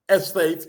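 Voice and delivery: ESTATE leaned on pointedly; stress on ESTATE. Real, not acted. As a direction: emphasise ESTATE within the place name. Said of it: "putting the emphasis on the word estate".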